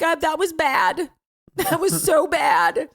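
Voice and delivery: high, slow, laughing at her own mistake; a light, laughing "that was bad"; laughing regret. Mother admitting her mistake to her son, laughing. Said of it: "I'm like".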